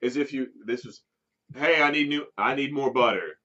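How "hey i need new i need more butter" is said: louder mock shout at the employee. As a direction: call across the room for butter. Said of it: "just shouting out".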